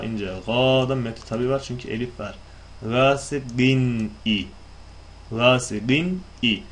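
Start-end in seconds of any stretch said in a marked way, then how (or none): 2.8-6.6 Gâsibin i drawn out slowly, each sound clear; slow Quranic Gâsibin i; slow recitation. Shown as a demonstration. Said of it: "İzhar vardır".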